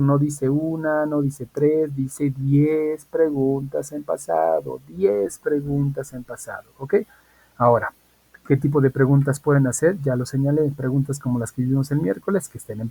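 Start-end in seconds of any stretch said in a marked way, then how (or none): 0.0-6.6 each number stressed slowly; slow emphatic repeat. Shown as a demonstration. Teacher to class, slowly stressing diez. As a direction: drive home ten, slowly and firmly. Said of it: "Vuelvo a repetir".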